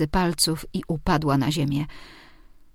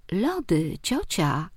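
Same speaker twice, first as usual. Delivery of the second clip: amused repeat; slower than usual. Acted. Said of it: "powtórzył rozbawionym tonem".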